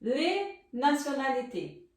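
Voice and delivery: slow, careful "Les nationalités" with every syllable spelled out; slow teacher modelling "Les nationalités"; slow model pronunciation. Shown as a demonstration. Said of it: "vou repetir pra vocês aprenderem a pronunciar".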